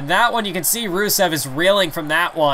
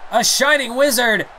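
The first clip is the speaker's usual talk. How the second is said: bigger excited call; 7 semitones higher than usual. Acted. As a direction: top the first call with more hype. Repeats the call, higher, louder.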